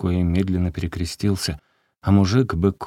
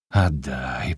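lower, suddenly hoarse plea; hoarse demand; 5 semitones lower than usual. A narrator's reading. Crazed peasant demanding the beggar's money, hoarse. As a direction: rasp out the demand. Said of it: "повторил он сразу охрипшим голосом".

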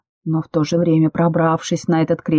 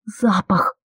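a panicked exhale on one word; hysterical gasp; 3 semitones higher than usual. Acted. Passenger gasps out to her companions in panic. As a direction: breathe it out in a sudden hysterical rush. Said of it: "я истерично выдохнула".

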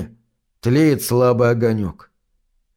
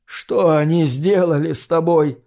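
crying grandmother; 3 semitones higher than usual. Acted. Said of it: "плачет бабушка".

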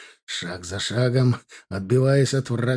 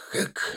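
sharp exhale; 8 dB quieter than usual. A narrator's reading. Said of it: "Резкий выдох и рывок".

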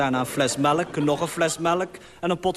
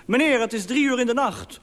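a hammed-up stern woman on the phone; strong woman's voice; 7 semitones higher than usual. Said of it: "een sterke vrouwenstem die riep".

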